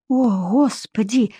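slow, understated worry; worried mutter. Acted. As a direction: murmur it with a touch of unease. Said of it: "пробормотала Вика с беспокойством".

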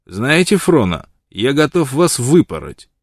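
a father figure losing patience, blurting it out; desperate outburst. A narrator's reading. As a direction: spit it out in exasperation. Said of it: "выпалил в совершенном отчаянии".

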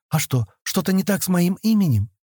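high, tentative question; timid question. A narrator's reading. Girl to upset Sten about her name, timid. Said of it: "робко спросила девушка".

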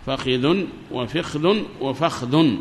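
change the vowels on each فخذ: a-i, i, a; three dialect forms. Shown as a demonstration. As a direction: slowly run فخذ as fakhidhun, fikhdhun, fakhdhun. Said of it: "ثلاث لغات".

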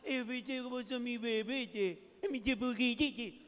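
lightly voiced mother cooing, slow on the middle; doting mom baby talk. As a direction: coo at a grown son like a baby. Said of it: "te hablan con la vocecita esa".

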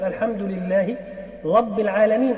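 رب said with l, like لب; lisp r as l. Shown as a demonstration. Teacher reciting Fatiha as a lisper would: r as l. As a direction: read رب العالمين turning r into l. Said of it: "أبدل الراء لاما".

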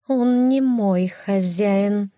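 high slow hissed cat line; hissing cat. Acted. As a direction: hiss it like an angry cat. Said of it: "прошипела она". (шипящая кошка)

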